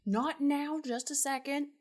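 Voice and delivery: urgent "not now"; bard's hasty hush. Acted. Bard hushing Tuft.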